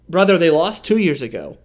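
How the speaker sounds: emphatic wrestler-style "brother" retort; a touch of ringside bluster; Hulk Hogan style. Real, not acted. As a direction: fire it off like a wrestling promo. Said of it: "You sound like Hulk Hogan".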